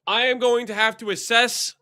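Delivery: tired, hoarse voice late at night. Real, not acted. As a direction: rasp it out with a worn-out throat. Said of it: "It's late and I have no voice".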